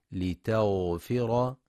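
لتغفر with a soft, full, heavy ghain; slow demo of لتغفر. Shown as a demonstration. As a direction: let the غ in لتغفر flow, thick. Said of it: "لرخاوة الغين وتفخيمها".

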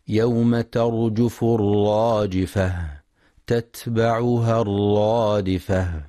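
slow, drawn-out tajweed chanting; measured melodic Quran recitation. Shown as a demonstration. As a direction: recite with full ghunna and long vowels. Recited verse.

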